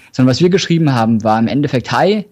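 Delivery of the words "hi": dictating. Retold or imitated. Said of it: "ich mach's jetzt mal zum Beispiel".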